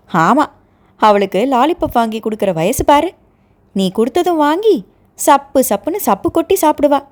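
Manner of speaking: mocking. Younger brother mocking his sister's baby talk, teasing. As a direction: poke fun at your sister. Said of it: "நக்கலாக சொல்லிக்கொண்டே".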